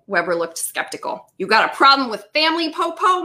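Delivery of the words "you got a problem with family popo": fast, high-pitched challenge; demanding. A narrator's reading. Missus Penny challenges a skeptical detective, demanding. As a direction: fire it at the cop, voice climbing. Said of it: "Missus Penny demanded".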